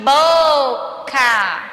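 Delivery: BOCA with long BO and short CA; stress on first syllable. Shown as a demonstration. Teacher confirming for pupils, BO heavily stressed in "Boca". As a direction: hold BO, then drop CA briefly in "Boca". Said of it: "O K eu falo bem rapidinho".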